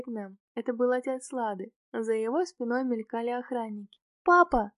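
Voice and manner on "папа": put-on little girl's glad cry, higher and louder; high, delighted child's call; joyful exclamation. A narrator's reading. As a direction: call out joyfully as a child spotting her dad. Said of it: "радостно воскликнула девочка".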